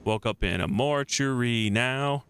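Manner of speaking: mortuary as mor-tur-ee within the line; sing-song line with three-beat mortuary; three syllables. Shown as a demonstration. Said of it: "Mortuary is a three-syllable word".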